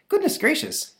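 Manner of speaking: very high gasp; shocked dog. Retold or imitated. Lhasa Apso aghast, very high. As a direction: clutch the pearls. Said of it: "says the Lhasa".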